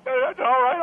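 rough hoarse voice with a cry; rasping, nearly crying. Pretend. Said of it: "It sounds rough".

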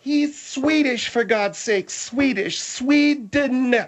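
slow, emphatic exasperation; drawn-out, insistent correcting; exasperated correction. Acted. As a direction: spell it out for a slow listener, fed up.

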